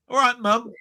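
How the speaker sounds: "mum" said with the British vowel. Shown as a demonstration. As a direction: say "mum" like "mum", not "mom". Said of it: "I call her my mum".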